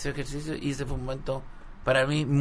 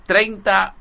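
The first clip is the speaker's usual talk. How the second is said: coach counting; 7 semitones higher, 7 dB louder than usual. Retold or imitated. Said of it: "el profesor estaba".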